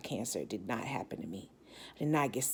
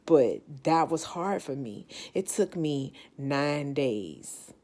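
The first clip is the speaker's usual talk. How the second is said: emotional; slower than usual. Real, not acted. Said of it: "I'm about to get emotional now".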